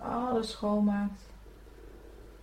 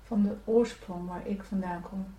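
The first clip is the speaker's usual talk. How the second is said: prayer; 3 dB quieter than usual. Acted. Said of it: "je kan in jezelf bij nazeggen".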